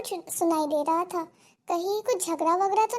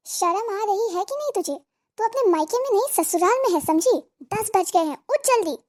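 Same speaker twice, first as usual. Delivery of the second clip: scolding; 3 dB louder than usual. Acted. सास बहू को डाँटती.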